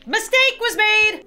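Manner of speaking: high, slow wail; dramatic outcry. Real, not acted. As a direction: cry it out in alarm. Panicked outcry in game.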